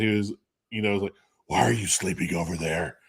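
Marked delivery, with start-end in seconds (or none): 1.5-3.0 Batman voice. Retold or imitated. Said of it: "in a Batman voice".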